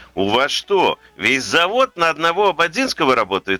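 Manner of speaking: normal talking voice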